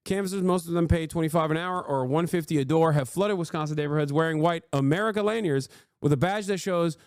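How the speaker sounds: fast, even reading voice; article read. Real, not acted. Streamer reading a news article to chat.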